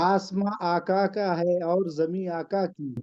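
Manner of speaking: slow, measured verse recital; poem recitation. Acted. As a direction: recite the couplet with weight. Recites a naat couplet.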